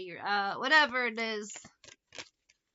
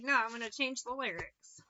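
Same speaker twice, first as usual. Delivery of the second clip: whisper; 5 dB quieter than usual. Real, not acted. Whispered aside to herself.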